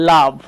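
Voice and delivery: লাভ with an a vowel; model word. Shown as a demonstration. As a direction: say লাভ like love, a not o. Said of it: "ও লেটারকে আমরা আ উচ্চারণ করছি".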